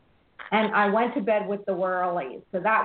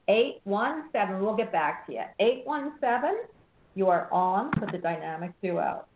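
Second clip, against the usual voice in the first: upbeat on-air caller intro; radio host intro. Acted.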